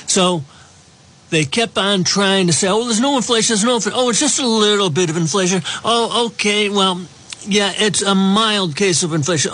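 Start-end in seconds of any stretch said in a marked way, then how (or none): 2.7-9.5 higher, dismissive mimicry; mocking voice. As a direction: sneer it like a spin doctor. Mocking the administration's inflation denial.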